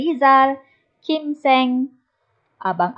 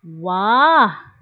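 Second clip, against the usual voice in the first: exclaimed wah; 2 semitones lower, 3 dB louder than usual. Shown as a demonstration. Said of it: "ketiga-tiga ini merupakan kata seru".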